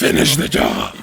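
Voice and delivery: sudden loud joking retort; dark joke shouted over the clip; loud deadpan quip. Real, not acted. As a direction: blurt it out as a joke.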